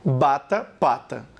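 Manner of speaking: "Bata, pata" with both lips closing and releasing; bilabial demo. Shown as a demonstration. Teacher showing bilabial sounds, careful demo. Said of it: "Bata é chamada de bilabial".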